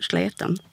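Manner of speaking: "sleten" with a thick flapped Swedish l. Shown as a demonstration. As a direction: flip the tongue back for the l in "sleten". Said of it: "även med ett tjockt L".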